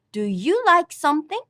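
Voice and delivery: "Do you like something?" ending on a rise; rising question tune. Shown as a demonstration. Teacher showing question intonation, rising tune. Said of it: "Just the rising intonation".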